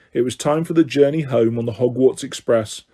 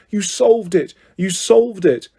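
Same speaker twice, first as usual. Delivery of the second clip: mild excited cry; 5 semitones higher than usual. Acted.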